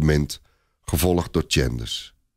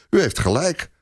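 higher, eager exclamation; exclaiming knight; 3 semitones higher than usual. Acted. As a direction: knight bursts out in surprise. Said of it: "een van zijn ridders roept uit".

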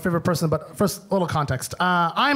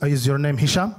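lower, heavier uncle voice; imitating uncle; 9 semitones lower than usual. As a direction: uncle cornering his nephew at a reunion, low and heavy. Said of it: "He just comes up to me and goes".

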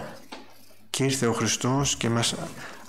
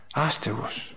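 whisper; 4 dB quieter, slower than usual. Shown as a demonstration. Homeless man at the office.

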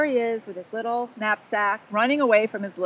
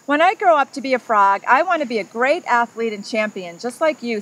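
excited; 2 semitones higher, 5 dB louder than usual. Acted. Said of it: "said the tadpole excitedly".

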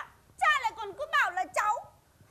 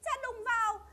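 tearful plea; 6 dB quieter, much slower than usual. Acted. Daughter pleads with father.

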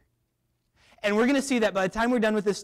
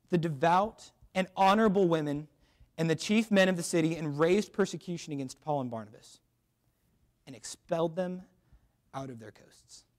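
scripture reading; 2 semitones lower than usual. Acted. Preacher reading the verse to the youth, solemn. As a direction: read the verse solemnly, trailing off.

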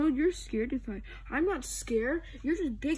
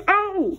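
high, loud "oh"; sudden yelp of alarm; startled cry; 6 semitones higher, 5 dB louder than usual. Acted. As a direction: cry out as if ambushed. Startled in a play fight.

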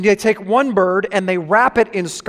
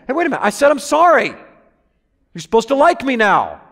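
higher, a lightly whiny wounded complaint; mock indignant protest; 4 semitones higher than usual. Preacher acting out a sinner expecting instant forgiveness, lightly whiny.

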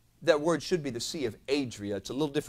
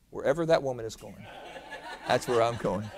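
amused gentleman; 3 semitones lower than usual. Retold or imitated. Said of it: "and he goes".

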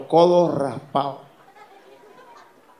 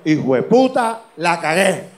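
mildly panicked, raised loud cry; dismayed outburst; 5 dB louder, slower than usual. Acted. Man surrounded by cannibals, mild acted panic. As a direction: blurt it as if doomed.

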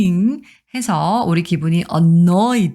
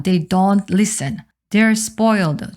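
slow model reading; 2 semitones higher, much slower than usual. Shown as a demonstration.

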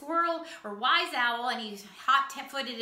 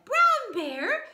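calling to wake him. Acted. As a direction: rouse him with a raised calling voice. Squirrel shakes sleeping bear awake.

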